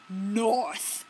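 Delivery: firm falling "North"; a touch of stern Robin; mock angry. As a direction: say "North" flat and final, mildly cross. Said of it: "angry Robin says with an angry face".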